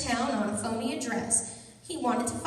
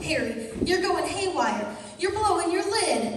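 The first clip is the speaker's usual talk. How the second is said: alarmed; 4 semitones higher than usual. Acted. Janet alarmed at Harry.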